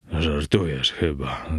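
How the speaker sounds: usual speaking voice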